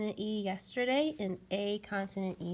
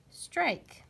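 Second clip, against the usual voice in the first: "Strike" said whole, higher and louder; blended word, lifted; 8 semitones higher, 4 dB louder than usual. Shown as a demonstration. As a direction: pull the sounds together into one bright word. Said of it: "This word says strike".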